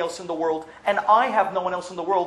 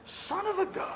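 much higher, soft amazed cry; amazed exclamation; 13 semitones higher, 8 dB quieter than usual. Acted. Daughter marvelling to Sam at her mother, amazed.

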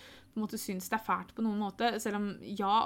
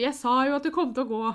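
louder, higher, quick burst of vindication; excited retold reply; 4 semitones higher, 7 dB louder, faster than usual. Partner reacting to pregnancy news, excited exclamation. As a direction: act out a partner's delighted told-you-so.

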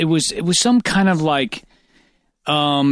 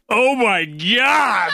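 amazed; 4 semitones higher, much slower than usual. Retold or imitated. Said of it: "and I was like".

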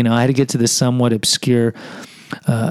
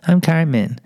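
Cartman impression; 3 semitones higher, slower than usual. Shown as a demonstration. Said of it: "I sound like Cartman from South Park".

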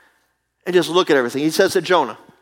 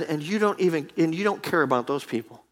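softer, gently grieved; quiet rebuke; 7 dB quieter than usual. Acted. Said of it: "And God said".

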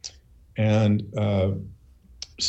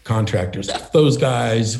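higher-pitched, mock-agitated team reaction; retold rattled team; 7 semitones higher than usual. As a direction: imitate shaken coworkers wanting out, pitched up. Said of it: "everybody was shaking".

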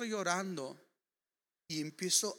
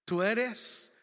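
hushed prayer; 3 semitones lower, slower than usual. Retold or imitated. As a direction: pray it gently, adoringly. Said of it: "empiezo a decirle".

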